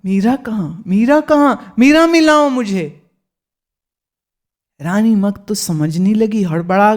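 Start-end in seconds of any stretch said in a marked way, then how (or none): 0.9-3.0 higher, desperate calling out; grieving holy man begging for Meera, anguished and high; anguished cry. Acted. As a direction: cry out for the lost child. Grieving mahatma cries out for Meera.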